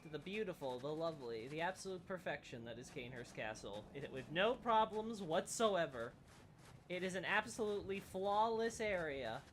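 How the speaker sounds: dry mock praise; sarcastic. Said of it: "No sarcasm at all".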